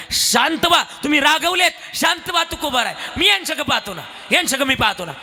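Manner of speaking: pleading to calm. Acted. God soothing angry Tukaram.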